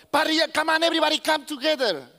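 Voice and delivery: lively, rallying call to gather; mock party invitation. Preacher plays host calling everybody together, excited. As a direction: round everyone up for the cookout.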